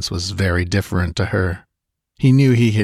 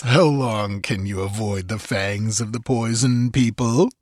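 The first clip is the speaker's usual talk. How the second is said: higher, slowed, taunting villain voice; gloating sorcerer; 3 semitones higher than usual. Acted. Sorcerer taunting the girl dancing among cobras, gloating. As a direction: savor every threat as she dances.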